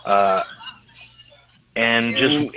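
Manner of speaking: ordinary delivery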